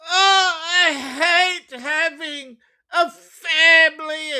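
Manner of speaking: high, mock sobbing whine; fake-cry it, hammed-up. Mocking her, fake sobbing.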